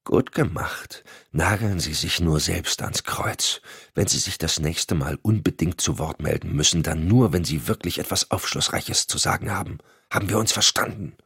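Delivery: a reprimand murmured to a colleague in a meeting; murmured into his ear. Acted. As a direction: mutter a rebuke under your breath. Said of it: "raunte ihm ins Ohr".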